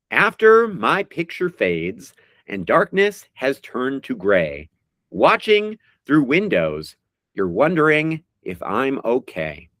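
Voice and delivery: slow, drawn-out recital of song lyrics; dramatic lyric reading. Acted. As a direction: read each line like a heartfelt poem. Reads lyrics as quiz clues.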